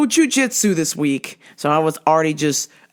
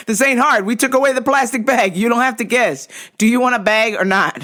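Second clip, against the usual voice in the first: exasperated cashier; 5 semitones higher, 3 dB louder than usual. Retold or imitated.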